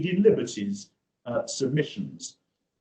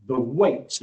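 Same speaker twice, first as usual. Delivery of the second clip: weight leaned on, a touch louder; stress on weight; 3 dB louder than usual. Real, not acted. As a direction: put weight on the word weight. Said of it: "and we emphasize that word".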